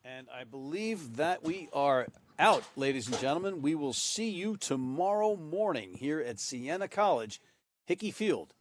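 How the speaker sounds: slow, drawn-out broadcast sign-off with swooping pitch; announcer sign-off. Acted. Commentator closing the night's broadcast to viewers, slow announcer sign-off. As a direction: stretch it out like an event announcer.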